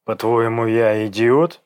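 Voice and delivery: harsh. A narrator's reading. Egor confronts Dasha over being taken for a fool, harsh. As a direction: demand an answer harshly. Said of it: "спросил Егор жёстко".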